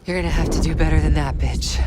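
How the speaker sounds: loud, fast, spat-out taunt; rapid angry taunt. Acted. Jane's other self taunting Woods, fast angry taunt. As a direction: rattle it off in contempt.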